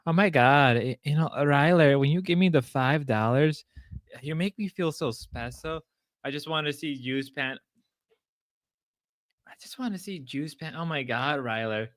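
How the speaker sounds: lightly imitated flirty streamer; Grace voice. Imitating a streamer thanking Ryler for donations, mock-flirty. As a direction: coo the thanks as a light impression. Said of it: "Gotta do the Grace voice".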